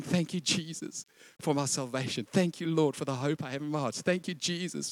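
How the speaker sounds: grateful Christian to Jesus, soft and thankful; grateful murmur. Retold or imitated. Imitating a thankful believer, quietly. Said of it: "and you're going".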